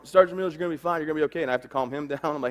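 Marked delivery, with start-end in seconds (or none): 0.0-1.4 medic yelling reassurance, higher and louder; mock urgent yell; retold yell. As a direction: call out urgently to a wounded sergeant. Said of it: "starts yelling".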